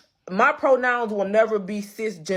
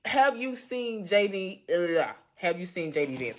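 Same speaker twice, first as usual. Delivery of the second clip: talking around new braces; words tripped up by braces; 5 dB quieter than usual. Real, not acted. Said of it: "excuse me and my braces".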